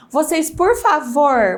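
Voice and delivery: slow, pointed mock scolding; impatient cake seller. Cake seller scolding customers in her direct messages, impatient. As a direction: drag out a curt please at customers. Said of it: "uma moça falar assim".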